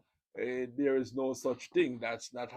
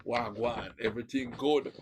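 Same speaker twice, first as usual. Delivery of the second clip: Jamaican greeting; 4 dB louder than usual. Shown as a demonstration. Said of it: "they like when Jamaicans speak".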